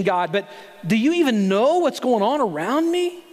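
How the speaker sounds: high, pleading indignant protest; complaining Elijah. Retold or imitated. Preacher voicing Elijah's protest to God, pleading. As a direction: whine at God like a frustrated prophet. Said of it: "he's saying".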